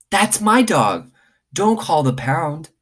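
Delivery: put-on high, slow girl's voice, pleading; a child insisting the dog is hers; young girl.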